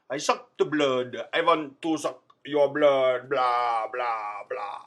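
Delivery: slow, lightly voiced 1930s vampire; a hint of old movie Dracula; vampire impression. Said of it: "impression of a vampire from a nineteen thirties movie".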